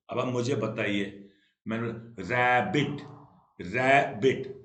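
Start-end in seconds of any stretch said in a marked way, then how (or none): 2.2-3.0 रैबिट stretched into two beats; syllable by syllable. Shown as a demonstration. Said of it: "कितने syllable का word है". 3.6-4.6 रैबिट in two separated beats; short gap between the syllables of रैबिट. Shown as a demonstration. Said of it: "कितने syllable का word है".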